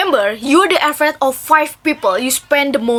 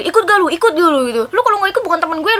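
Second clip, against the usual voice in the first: pushy friend; 5 semitones higher, much faster than usual. Retold or imitated. Pressuring friend insists you join, pushy and raised. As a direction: lean on them to come along.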